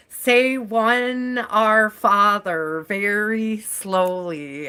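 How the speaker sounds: slow, kindly instruction, lightly imitated; gentle monk. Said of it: "He was so gentle".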